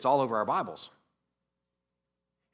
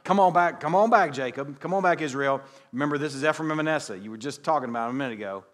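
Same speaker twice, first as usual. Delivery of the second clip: coaxing son; 3 semitones higher, 6 dB louder, faster than usual. Retold or imitated. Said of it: "He, like".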